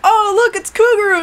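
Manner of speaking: high-pitched fake crowd excitement; excited mock greeting. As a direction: imitate thrilled onlookers spotting a star. Voices everyone excited at her arrival.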